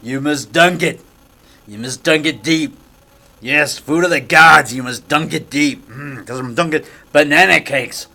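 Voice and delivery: low, solemn dunking decree; hammed-up low, portentous voice; movie ritual command. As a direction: intone it like a mock ritual. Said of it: "Like I tell her, I go".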